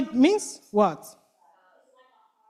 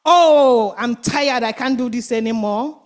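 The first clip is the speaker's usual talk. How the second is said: complaining frog. Acted. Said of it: "the complainer".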